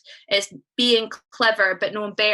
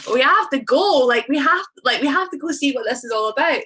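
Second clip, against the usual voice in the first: eager excitement; 4 semitones higher, 4 dB louder than usual. Retold or imitated. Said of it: "we were like".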